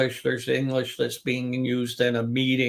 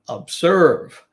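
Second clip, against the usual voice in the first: "observe" with "serve" loud and stretched; stress on second syllable; 5 semitones higher, 7 dB louder than usual. Shown as a demonstration. Teacher giving a two-syllable verb example, second syllable stressed. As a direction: punch the "serve" in "observe", slowly. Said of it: "we emphasize the second syllable".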